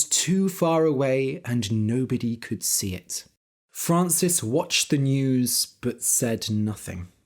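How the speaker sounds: calm, clear storytelling for English learners; story narration. A narrator's reading. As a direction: read the tale steadily to your listeners.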